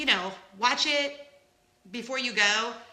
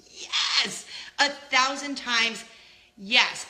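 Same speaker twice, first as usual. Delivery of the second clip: emphatic yes; 3 semitones higher, 5 dB louder, much slower than usual. Real, not acted. Emphatic recommendation.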